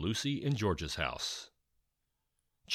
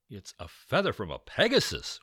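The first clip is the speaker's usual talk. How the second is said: excitedly; 3 semitones higher, 6 dB louder than usual. Acted. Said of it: "Will said excitedly".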